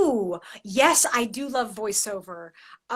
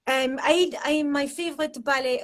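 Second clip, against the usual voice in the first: Russian accent sliding into French; slipped Russian accent; 3 semitones higher, 5 dB louder than usual. Shown as a demonstration. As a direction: attempt a Russian accent, landing nearer French. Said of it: "that's French".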